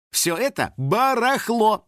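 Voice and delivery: slow, high, final verdict; brooking no argument. A narrator's reading. Star condemns the clothes, brooking no argument. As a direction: declare it junk, no debate. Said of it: "нетерпящим возражения тоном".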